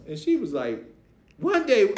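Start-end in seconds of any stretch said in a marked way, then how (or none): 1.4-1.9 put-on high, loud disbelieving teen voice; incredulous teen echo. Niece repeating his words, high and incredulous.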